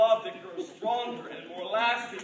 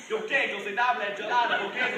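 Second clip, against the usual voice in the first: Spanish; faster than usual. Acted. Husband quotes the strange young man with the knife, mock Spanish. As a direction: rattle off hammed-up garbled Spanish. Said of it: "The strange young man says in Spanish".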